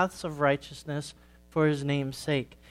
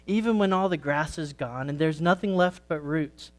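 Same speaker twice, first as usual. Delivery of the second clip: put-on gentle storytelling for kids at church; story read to children. A narrator's reading. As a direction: tell it like a children's sermon story. Reads a children's story aloud.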